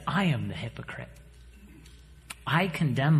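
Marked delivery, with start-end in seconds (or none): 0.1-1.1 soft unvoiced admission; whispered confession. Real, not acted. Preacher admitting his hypocrisy to the church, whispering. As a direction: breathe it out as a quiet confession.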